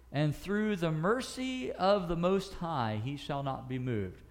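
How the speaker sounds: slow, deliberate Bible reading; solemn slow reading of the psalm; scripture reading. Acted. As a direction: read the verse slowly and reverently.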